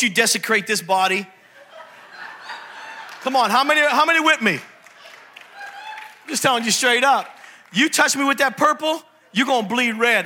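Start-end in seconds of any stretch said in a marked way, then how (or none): 4.5-7.3 slow drawn-out warning. Acted. Preacher warns the crowd off a rival team, drawn out slowly. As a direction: drag out each word like a slow warning.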